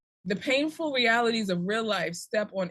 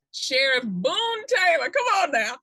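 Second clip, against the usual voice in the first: said with relish; 6 semitones higher, 4 dB louder than usual. Real, not acted. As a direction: savour the name, then cheer it on. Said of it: "I had to say it like that".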